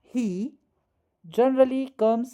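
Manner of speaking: each word laid out very slowly; slow dictation. Shown as a demonstration. Teacher dictating the example sentence slowly to students. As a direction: dictate the sentence at writing speed.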